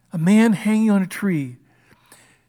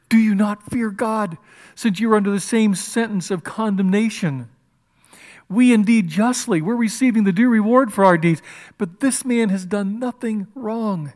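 loud, raised, emphatic reproof; rebuking; 4 semitones higher, 4 dB louder than usual. Retold or imitated. One criminal to the other, a loud retold rebuke. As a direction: reprove him firmly, stretching the key words. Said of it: "But the other rebuked him".

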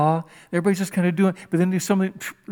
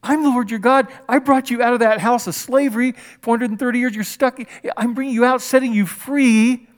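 higher, tender voice of God speaking to his people; lightly voiced loving God; voicing God; 5 semitones higher, 3 dB louder than usual. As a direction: speak as a loving God setting them free. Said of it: "He's saying".

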